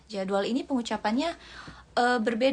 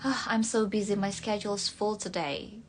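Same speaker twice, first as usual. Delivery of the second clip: American accent. Shown as a demonstration. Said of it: "Kalau American schedule".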